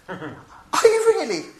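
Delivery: slow, high, laughing disbelief; drawn-out amused astonishment; mock surprise. Preacher mocking his own reply to a stranger, slow and laughing.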